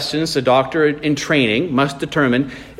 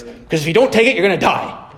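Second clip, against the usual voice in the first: exasperated South African doctor, pitched up high; South African accent; 7 semitones higher than usual. Retold or imitated. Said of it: "exasperated friend told him in a South African accent".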